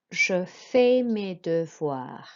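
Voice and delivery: "je fais mes devoirs" slowly, "fais" said as fay; careful French, "devoirs" with a vwah sound; silent S. Shown as a demonstration. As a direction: slowly model "fais" without its S. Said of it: "the S is not pronounced on fait".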